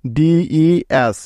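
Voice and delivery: ডিইএস stretched letter by letter; teacher spelling ডিইএস slowly. Shown as a demonstration. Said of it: "বানানটা কি হলো".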